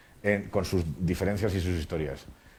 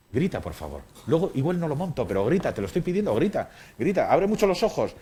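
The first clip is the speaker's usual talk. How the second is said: pleading director; 5 semitones higher than usual. Retold or imitated. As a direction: beg the actor to shout, getting higher. Director begging actor to scream.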